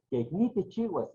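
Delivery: quejní with the final í stressed; stress on the last syllable. Shown as a demonstration. Teacher showing quejní is an aguda word, final-syllable stress. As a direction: land the accent on the end of quejní. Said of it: "quejní es una palabra, eh, aguda".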